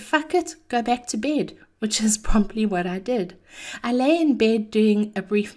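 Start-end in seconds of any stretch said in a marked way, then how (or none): 0.0-1.6 lazy defiance. Retold or imitated. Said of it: "And the other said".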